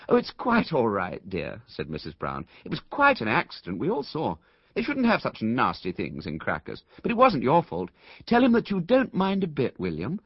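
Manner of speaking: light motherly fuss; fussy Mrs Brown. Acted. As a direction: coax the boy along, rising high and eager. Mrs Brown soothing William.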